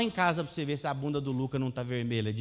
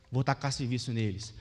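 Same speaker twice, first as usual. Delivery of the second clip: pharaoh's scheme; 6 semitones lower, 3 dB quieter than usual. Acted. Pharaoh voiced in sermon.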